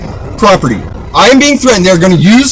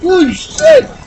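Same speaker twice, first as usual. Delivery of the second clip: high, strained curses; spitting out curses in real distress; furious cursing; 8 semitones higher, 4 dB quieter than usual. Real, not acted. Driver cursing the officers pulling him out, strained fury. Being pulled from the car.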